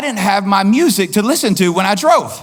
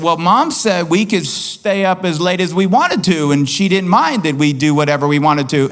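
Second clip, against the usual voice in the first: put-on kids wheedling dad; 4 semitones lower than usual. Kids telling dad what Mom allowed, lightly imitated wheedling. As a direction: stretch it out like a kid trying it on. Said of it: "my kids would come to me when they were younger".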